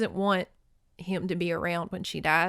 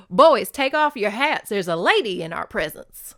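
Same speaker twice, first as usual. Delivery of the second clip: put-on louder, commanding call to the boys; mock stern call; 7 dB louder than usual. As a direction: bark the order like a gruff old cowboy. Gus voiced addressing the boys.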